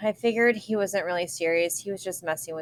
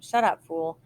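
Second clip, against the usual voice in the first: snapping; 3 dB louder than usual. Acted. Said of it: "Tino snapped at him".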